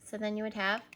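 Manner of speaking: ordinary talk, nothing marked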